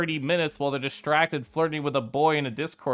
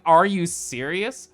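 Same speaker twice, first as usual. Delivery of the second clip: exasperated, higher and louder rant; annoyed; 5 semitones higher, 3 dB louder than usual. Retold or imitated. Streamer quoting her annoyed reaction to DoorDash, exasperated. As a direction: vent at the app in disbelief. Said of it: "I was so annoyed".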